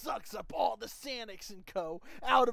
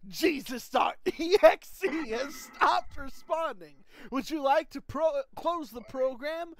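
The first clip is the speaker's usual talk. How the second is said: computer error voice; 5 semitones higher, 5 dB louder than usual. Acted. Narrator reading an error message.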